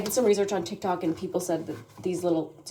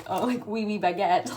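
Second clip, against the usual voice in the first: mock French accent. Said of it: "it's kinda like this meme".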